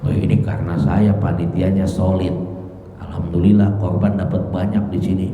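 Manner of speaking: brag, pleased with yourself; boastful proud man. Retold or imitated. Proud organiser bragging about a big sacrifice haul, smug. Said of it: "Orang yang membanggakan dirinya".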